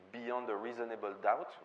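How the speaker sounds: the English film title said in a clumsy French accent. Real, not acted. Lecturer naming Fritz Lang's last American film, in a clumsy French accent. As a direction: read Beyond a Reasonable Doubt in self-conscious French-accented English. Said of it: "pardon pour mon accent anglais qui est un peu foireux".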